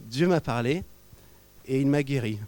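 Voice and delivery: a light imitation of her earnest way of talking; imitating her manner. Pastor lightly mimicking the healed lady's earnest way of speaking. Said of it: "elle parle comme ça".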